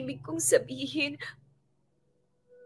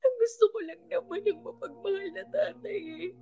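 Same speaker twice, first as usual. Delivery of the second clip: crying; 3 semitones higher than usual. Acted. Drunk friend crying about father.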